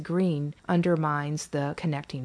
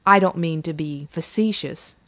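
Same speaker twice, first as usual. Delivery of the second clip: louder, fed-up apology; exasperated; 4 dB louder than usual. Acted. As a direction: say it irritated and pushing back.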